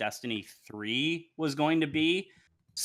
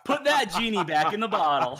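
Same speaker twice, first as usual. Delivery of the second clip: higher, louder, through laughter; laughing; 7 semitones higher, 5 dB louder than usual. Real, not acted. Laughing at ASMR idea.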